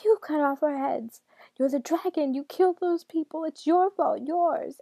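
high, loud, enraged shouting; furious accusations. A narrator's reading. Enraged daughter blaming her father, furious high shouting. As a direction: hurl each accusation at high pitch. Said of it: "red and twisted with fury".

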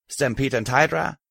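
strange, slightly slurred question; slurring voice. Acted. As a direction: slur the words a little. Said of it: "in a strange, slightly slurring voice".

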